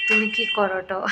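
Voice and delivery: the question in Medinipur Bengali; a quick sample of Medinipur speech; Medinipur dialect. Shown as a demonstration. Showing off her Medinipur way of speaking, Medinipur accent. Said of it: "মেদিনীপুরের ভাষায় বলবে".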